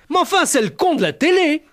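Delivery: high, loud, laughing country wife; excited laughing shout. Retold or imitated. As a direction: cry out in delighted recognition. Wife recognises the TV star.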